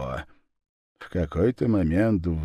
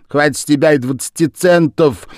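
higher, louder grumble; grumbling Lizzie; 7 semitones higher, 8 dB louder than usual. A narrator's reading. Lizzie grumbling loudly at the Japanese man. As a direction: grumble at the cat for its price. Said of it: "ворчала Лиззи".

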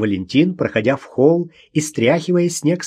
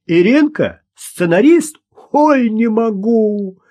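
high, loud mocking disbelief; laughing scornfully; 10 semitones higher, 5 dB louder, slower than usual. A narrator's reading. Gosha mocks Irina as a screenwriter, high-pitched and loud. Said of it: "Гоша расхохотался".

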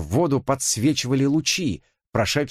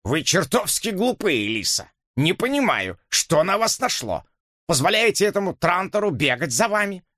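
put-on irritated old man; 9 semitones higher than usual. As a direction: scold her like a fussy uncle. Dipps scolds Elisa. (раздражённый старик)

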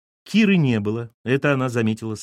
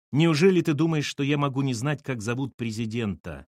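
haughty. Acted. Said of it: "с высокомерием английской королевы".

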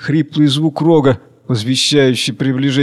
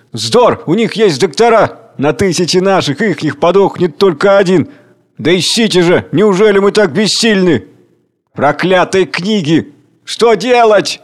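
loud, higher; despairing shouts; 6 semitones higher, 4 dB louder than usual. Acted. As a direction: rage helplessly. Chairman and crowd despair.

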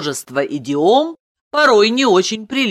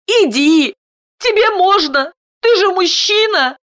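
high, insistent wife voice; quick, eager response; 13 semitones higher, 4 dB louder than usual. A narrator's reading. Wife sends her husband in to the child, eagerly. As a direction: urge him on in a high, raised voice. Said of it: "Даша быстро откликнулась".

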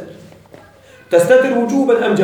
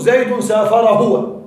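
slow example with pronoun; slower than usual. Shown as a demonstration. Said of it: "ويجوز".

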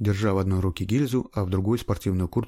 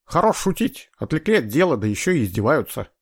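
irritated detective; 6 semitones higher, 4 dB louder than usual. A narrator's reading. Сыщик не верит, раздражён.

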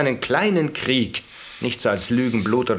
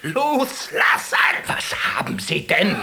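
incredulous shout; 7 semitones higher, 3 dB louder than usual. Acted. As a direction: shout back in disbelief. Nurse shouting back at patient.

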